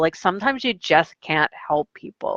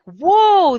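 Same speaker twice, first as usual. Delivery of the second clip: high, loud whoa of surprise; loud, high surprised exclamation; 11 semitones higher, 6 dB louder than usual. Retold or imitated. Teacher reacting surprised.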